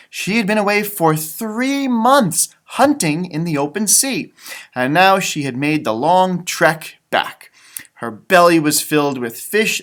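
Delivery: gentle read-aloud storytelling voice; story narration. Acted. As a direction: read it like a bedtime picture book. Reading picture book aloud.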